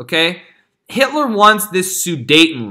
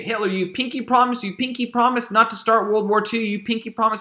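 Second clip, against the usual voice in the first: high, pleading mock Chamberlain; 5 semitones higher than usual. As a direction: coax him like a nervous schoolboy. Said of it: "with the promise".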